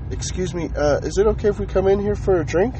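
hesitant, high-pitched polite request; imitating a man who has lost his confidence; timid, unconfident. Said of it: "loses all of his confidence".

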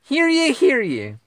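high, loud proclaiming call; town crier. Pretend. Mock royal proclamation.

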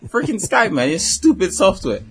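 high, exasperated grumbling at software; mock angry rant. Caller ranting at Skype over a dead mic, mock angry.

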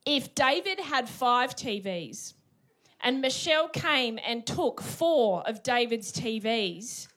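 slow, deliberate word problem; maths teacher. Retold or imitated. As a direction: read it out like a teacher. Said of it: "They always write".

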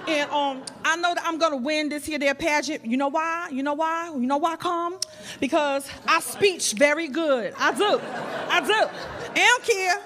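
lightly voiced sassy Brooklyn girl; a hint of a Brooklyn street attitude; Brooklyn homegirl. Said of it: "My name is Shantifrenikia Johnson".

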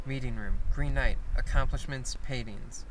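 soft murmured list; whispered. Acted. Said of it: "Zayo held her shawl and whispered".

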